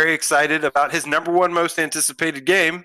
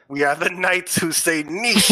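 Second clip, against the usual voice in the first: lightly voiced comic knight, pitched up; mock knight; 4 semitones higher than usual. Co-host parodying the knights who say a word, mock knight. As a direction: proclaim it as a silly knight, lightly hammed-up. Quotes a comedy film's knights.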